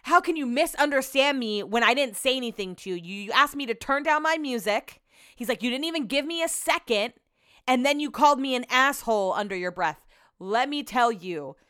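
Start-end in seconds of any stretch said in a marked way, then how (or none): 0.0-5.0 raised pitch, indignant comeback; imitated aggressive retort. Retelling a guest refusing an apology, indignant and aggressive. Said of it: "super loud and aggressive". 5.6-10.1 higher, indignant mock complaint; imitated angry accusation. Retelling an insulted guest accusing another, aggressive. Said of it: "super loud and aggressive".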